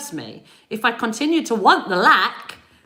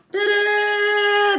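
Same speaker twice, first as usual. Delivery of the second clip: ta-da; 10 semitones higher than usual. Acted. Announcing the sun.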